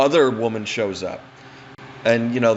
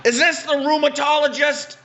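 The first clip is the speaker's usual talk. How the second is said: put-on old lady voice; 4 dB louder than usual. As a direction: play the confused fallen granny, pitched way up.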